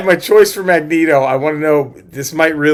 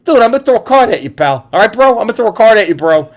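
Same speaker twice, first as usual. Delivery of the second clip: lightly mocked dude, pitched up; casual dude voice; 5 semitones higher, faster than usual. Imagining Gambit without a Cajun accent, casual dude voice. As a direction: play a breezy bro, a bit higher. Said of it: "is he just like".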